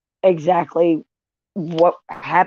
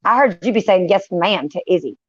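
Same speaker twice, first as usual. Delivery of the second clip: mock threat. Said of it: "I'll be like".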